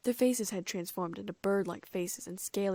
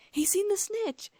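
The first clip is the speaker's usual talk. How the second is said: very high, loud, drawn-out cry; excited shout; 13 semitones higher, 6 dB louder, slower than usual. A narrator's reading. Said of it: "I shouted excitedly".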